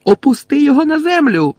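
high, loud shouted command; Lily furiously shouting at James; angry shout. A narrator's reading. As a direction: yell at him to put Snape down. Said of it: "крикнула".

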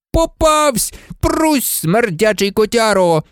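high-pitched excited scolding; triumphant exclamation. A narrator's reading. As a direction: cry out on catching a pet. Ron shouting at the caught pet. (збуджений високий вигук)

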